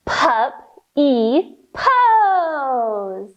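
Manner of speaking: slow whimpery puppy whisper; teacher bouncing in puppy pose, slow puppy whimper. Pretend. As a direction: drag it out like a whining pup. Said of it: "bounce here for puppy pose".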